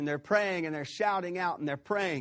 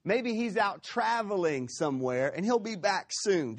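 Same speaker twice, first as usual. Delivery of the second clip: higher-pitched, mock-helpful taunt; 4 semitones higher than usual. Elijah excusing Baal to his prophets, mock-helpful. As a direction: offer a pretend excuse, lightly mocking. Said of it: "he starts to mock them".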